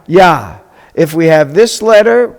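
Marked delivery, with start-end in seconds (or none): 0.1-0.6 "ya" as one isolated syllable with an open ah; teacher models "ya" alone; syllable demo. Shown as a demonstration. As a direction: sound out "ya" for learners. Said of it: "we're gonna pronounce it".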